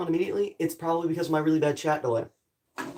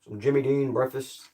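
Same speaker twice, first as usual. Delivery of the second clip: commercial narrator voice; 3 semitones lower than usual. Pretend. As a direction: pitch it like a breakfast commercial. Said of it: "I sound like I'm gonna narrate a commercial".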